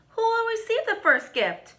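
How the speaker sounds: high, eager chorus of a question; excited children asking. A narrator's reading. Children asking the conductor, high and eager. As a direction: ask it like wide-eyed kids. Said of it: "we all asked".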